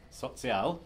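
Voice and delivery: "sozial" said slowly, German-style as tsoh-tsee-AHL; German word sozial. Shown as a demonstration. Lecturer to students, slowly sounding out the German sozial. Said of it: "say it out loud in a bad accent".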